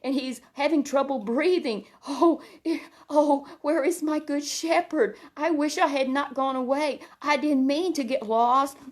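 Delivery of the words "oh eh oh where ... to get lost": higher, frightened lamb pleading for its shepherd; a lost lamb wishing it had never strayed; scared little lamb. Acted. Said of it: "this little lamb is scared".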